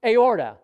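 Aorta proclaimed loud with a falling end; emphatic word. Shown as a demonstration. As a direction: ring out the word Aorta like a revelation. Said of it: "do you know what word came to me?".

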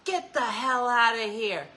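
dad's gruff line. Retold or imitated. Dad telling a daughter's boyfriend he likes him, mock gruff. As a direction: growl it out like a dad who secretly likes you.

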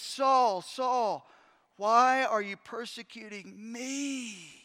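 Jesus stopping Paul on the road to Damascus, slow and pleading. Acted. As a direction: call out, then ask slowly and searchingly. Jesus confronting Paul, retold.

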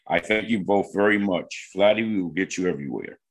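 lightly put-on authoritative voice; a touch of low, measured executive polish. Real, not acted. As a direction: thank them like a composed executive. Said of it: "Is that your executive voice that you're using right now?".

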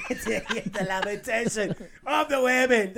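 helium voice. Acted. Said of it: "do it as Arnold with the helium voice".

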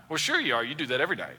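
understated, dry jab; sarcastic. Acted. Wife to husband going out with guys, quietly sarcastic. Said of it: "That's that sarcasm".

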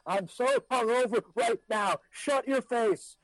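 high, slow, whiny hungover grumble; grumpy hungover voice. Acted. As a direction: groan it like the morning after. Acting a grumpy hungover diner.

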